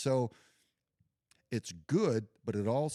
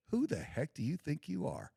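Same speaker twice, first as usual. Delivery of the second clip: harsh drill sergeant; 8 semitones higher than usual. Retold or imitated. Veteran scolding himself like a harsh drill sergeant. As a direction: chew him out like a drill instructor. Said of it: "he said it a lot nicer than this".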